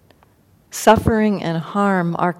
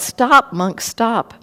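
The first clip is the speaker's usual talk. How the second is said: a high called stop, falling off; calling out; 5 semitones higher, much slower than usual. Retold or imitated. Angulimala calls after the monk, a high call. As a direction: call it out across the forest. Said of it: "he called out".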